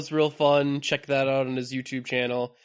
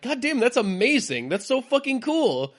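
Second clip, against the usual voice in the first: excited; 9 semitones higher than usual. Retold or imitated. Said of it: "And I'm like".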